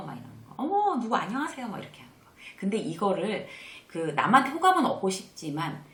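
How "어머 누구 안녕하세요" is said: high-pitched, delighted hello on spotting someone; smiling greeting. Shown as a demonstration. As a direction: greet them with a smile in the voice. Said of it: "웃으면서 인사하는 거". (반갑게 웃으며 높은 톤으로 인사)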